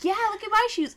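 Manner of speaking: high, loud playing along with a kid; mock-excited show-and-tell; match a toddler's excitement, hammed up; feigned enthusiasm. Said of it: "And I was like".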